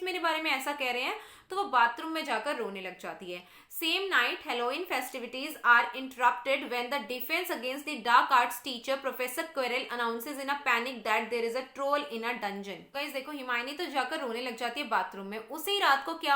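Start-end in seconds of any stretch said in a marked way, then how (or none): 3.7-12.8 slow, deliberate textbook read-aloud; measured classroom reading. Real, not acted. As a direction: read it out slowly for a class, word by word. Reads the English text aloud.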